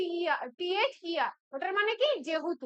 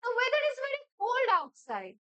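"cold" given extra force, drawn out; slow demonstration, leaning on the word "cold"; expressive model sentence; 4 semitones higher, much slower than usual. Shown as a demonstration. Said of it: "expression দিয়ে কথাটাকে বললো".

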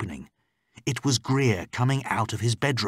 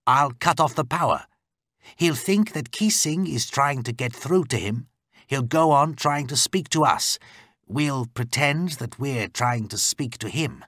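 slightly higher, emphatic explaining voice; lightly voiced man briefing an ally; driver explaining plan; 5 semitones higher than usual. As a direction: lay out the plan firmly, point by point.

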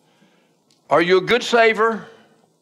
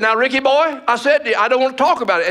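higher-pitched insistent shutdown; retold firm refusal; 6 semitones higher than usual. Father to son who keeps asking about church, insistent refusal. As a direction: imitate a dad closing the subject. Dad firmly refuses to discuss it.

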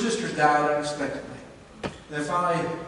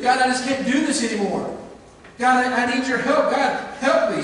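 raised, urgent plea to God; pleading prayer; 5 semitones higher, 3 dB louder than usual. Pretend. Preacher voicing a congregant crying out to God, pleading. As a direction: cry out to God for help, higher. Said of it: "Why don't you cry out and say".

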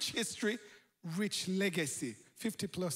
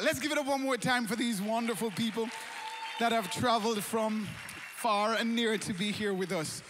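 applause call; 2 semitones higher, 3 dB louder than usual. Real, not acted.

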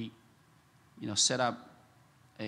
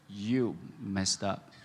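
slow bold rebuke; 4 semitones lower, much slower than usual. Shown as a demonstration. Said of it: "and say".

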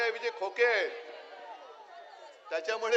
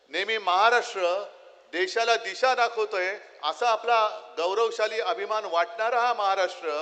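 rally speech; 5 dB louder than usual. Real, not acted. Rally climax, indignant.

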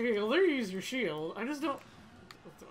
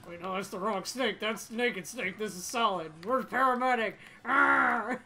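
Snake voice. Acted. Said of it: "how bad my Snake impression".

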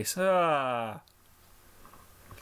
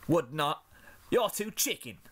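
rebuttal; 4 semitones higher than usual. Acted. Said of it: "Scootaloo rebutted".

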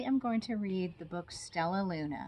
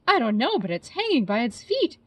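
higher, louder chirpy little bird; chirping baby bird; 5 semitones higher, 10 dB louder than usual. Acted. Baby bird Flitter puzzling over the bat, chirpy. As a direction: chirp it out brightly. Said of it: "chirped Flitter".

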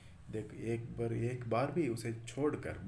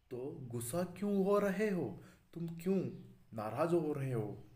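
higher, a little louder, hurt and puzzled; plead, caught off guard; startled pleading; 5 semitones higher, 3 dB louder than usual. Acted. The mobile asks the angry telephone why, startled and high. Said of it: "यहाँ mobile चौंकते हुए".

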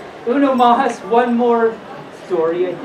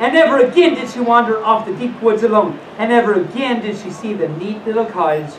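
storybook reading. Acted. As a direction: wind the fairy tale down to its close. Reads a story aloud.

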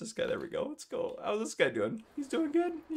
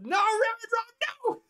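long, drawn-out high yell of "no"; mock anguished scream; 6 dB louder, slower than usual. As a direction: playfully wail in protest, loud and slow. Mock protest, then just kidding.

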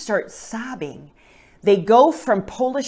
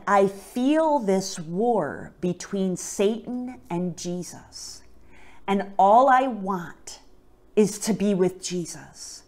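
slow, deliberate and heartfelt; measured pleading with spaced-out phrases; earnest retold confession; 2 semitones higher, slower than usual. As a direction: retell an anguished plea slowly, without crying. Retelling brother's tearful confession at altar.

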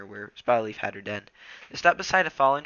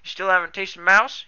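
surprised; 8 semitones higher, 10 dB louder than usual. A narrator's reading. Surprised young cat.

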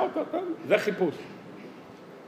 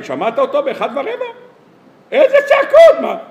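gossiping neighbour; 5 semitones higher than usual. Retold or imitated. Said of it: "אומר את השכן".

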